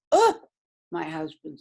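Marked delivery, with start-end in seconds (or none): 0.1-0.4 surprised oh. Retold or imitated. Husband reacts in the story.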